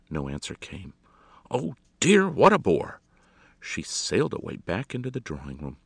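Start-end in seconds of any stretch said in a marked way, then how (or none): 1.5-3.0 high, loud theatrical annoyance; put-out hostess; exasperated. A narrator's reading. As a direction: exclaim as a bored society lady. Hostess annoyed at dead line.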